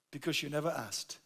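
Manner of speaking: a soft, calm and unbothered answer; calm unflustered reply. Retold or imitated. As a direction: shrug it off quietly like a calm friend. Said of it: "unflustered, calm way and said".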